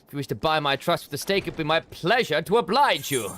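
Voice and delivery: a hint of a stern nobleman calling out; suspicious noble. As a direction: warn him off, lightly pompous.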